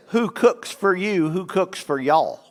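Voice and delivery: slow hooting owl phrase; lightly voiced slow owl hoot. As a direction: hoot it out slowly like a barred owl. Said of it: "he says".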